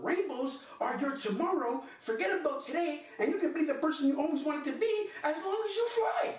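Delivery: high, sing-song mock inspirational quote; mocking recital. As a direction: read the sappy quote with rising scorn. Sappy online quote read in mockery.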